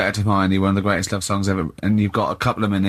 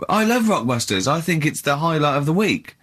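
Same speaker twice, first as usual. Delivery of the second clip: indignant protest; 4 semitones higher than usual. Real, not acted. Accused of rushing on purpose, protests.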